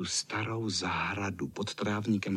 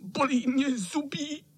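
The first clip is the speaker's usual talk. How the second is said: much higher whimpering sick cat; whining cat. A narrator's reading. Sick fat cat complains to the boys, whining. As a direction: whine out every ache. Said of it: "zakňovral kocour".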